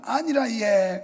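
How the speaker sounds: Gyeongsang dialect. Retold or imitated. Preacher mimics a Gyeongsang speaker declining, Gyeongsang accent. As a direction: brush it off, Gyeongsang style. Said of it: "경상도는".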